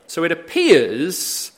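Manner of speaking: appears drawn out slowly and leaned on; slow, weighted appears; stress on appears. Shown as a demonstration. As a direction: lean hard into the word appears. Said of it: "I emphasize the word appears".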